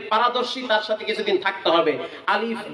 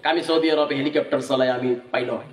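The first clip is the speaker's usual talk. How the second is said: boasting husband; 9 semitones lower than usual. Retold or imitated. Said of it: "husband boasting in a joke".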